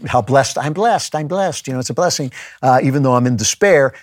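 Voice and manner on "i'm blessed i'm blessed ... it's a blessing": mock happy talk. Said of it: "happy talk nonsense".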